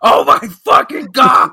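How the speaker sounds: high, loud mock freakout; mock panic. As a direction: yelp it like you're terrified. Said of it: "I was flipping the fuck out".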